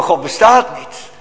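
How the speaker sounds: mock defiant exclamation; God bestaat niet, uitgeroepen; defiant shout. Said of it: "atheïst met een gebalde vuist, uitroepen".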